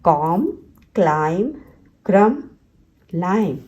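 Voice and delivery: कॉम, क्लाइम, क्रम, लाइम each ending on M alone; word-list demo, कॉम to लाइम with no final B; silent B. Shown as a demonstration. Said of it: "हम बी को silent रखते हैं".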